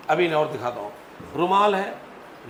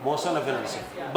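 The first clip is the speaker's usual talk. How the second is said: slow dictation; 4 semitones lower, 7 dB quieter, much slower than usual. Shown as a demonstration. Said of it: "dictated term".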